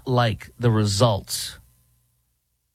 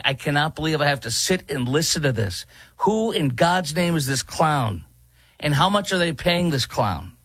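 higher-pitched, incredulous mock complaint; exasperated listener; 5 semitones higher than usual. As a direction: act out disbelief at a meeting you're stuck in. Acted listener exasperated in a meeting.

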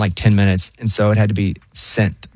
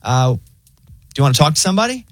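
much higher, easygoing AI voice; lazy friendly machine offering help; chill robot voice; 7 semitones higher than usual. Retold or imitated. Pharmacy AI reporting a delay, high chill voice. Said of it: "And so they're like".

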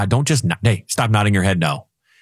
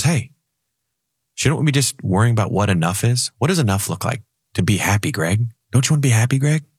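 angel voice. Retold or imitated. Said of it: "the angel, Donald Duck, says".

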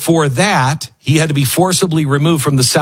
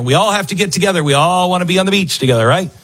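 mock-sweet group-harmony voice, higher and fast; mock beach hippie; 6 semitones higher, faster than usual. Commentator mocking beachgoers in a higher, rushed singsong. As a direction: parody the easygoing beach crowd, lightly.

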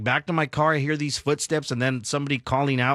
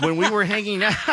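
laughing; 4 semitones higher than usual. Real, not acted. Breaks up laughing mid-story.

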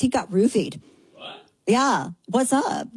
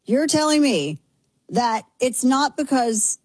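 slow, higher hammed-up macho voice; mock dude voice; 5 semitones higher, slower than usual. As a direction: keep up the mock dude talk. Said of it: "Gonna have to talk like this".

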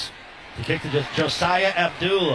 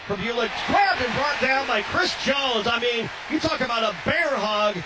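excited call; 4 semitones higher than usual. Real, not acted. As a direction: sell the bear hug tackle. Big tackle on quarterback run.

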